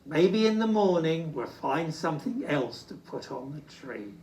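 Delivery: gentle, fading kind reply; kindly. Acted. Old Bear comforting Little Bear, kindly. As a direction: soothe the little one. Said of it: "said Old Bear kindly".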